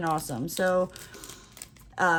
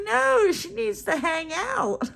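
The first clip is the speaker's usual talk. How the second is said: mock pleading; 12 semitones higher, 4 dB louder, slower than usual. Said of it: "I'm like".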